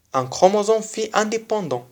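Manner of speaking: normal talking voice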